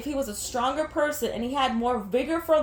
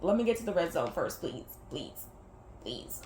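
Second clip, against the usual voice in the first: pleading inner voice; 8 semitones lower, 7 dB quieter than usual. Retold or imitated. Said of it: "but I'm like".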